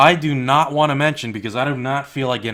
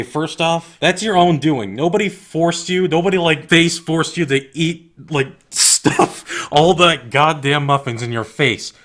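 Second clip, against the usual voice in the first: louder, exasperated scolding, slowing to punch the points; raised, indignant lecture; heated rant; 3 semitones higher, 4 dB louder than usual. Real, not acted. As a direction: tell them off like you're fed up. Angry rant at blamers.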